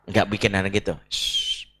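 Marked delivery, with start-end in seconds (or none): 1.1-1.7 soft unvoiced shh; a gentle shushing to the child; hushing. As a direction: hush the kids gently.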